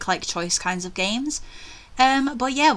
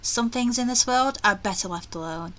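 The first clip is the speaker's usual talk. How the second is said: measured, expressive storytelling read; story narration; 3 dB quieter than usual. A narrator's reading. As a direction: narrate an eerie mansion tale to listeners. Reads the game's narration aloud.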